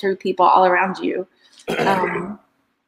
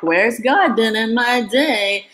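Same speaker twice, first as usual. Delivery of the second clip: spiritual voice; 3 semitones higher, slower than usual. Shown as a demonstration. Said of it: "definitely don't use that voice either".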